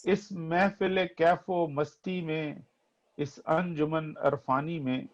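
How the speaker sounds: poetry recitation. Acted. Reciting ghazal verses, repeated lines.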